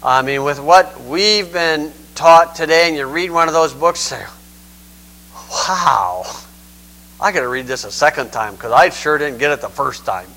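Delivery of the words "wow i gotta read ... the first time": low, softly dazed wow; awed bafflement. Acted. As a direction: lightly act out a stunned, overwhelmed reader. Acts out a baffled reader.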